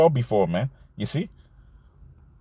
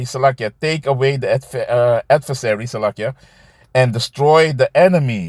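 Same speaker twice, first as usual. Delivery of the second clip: scripture reading. Acted.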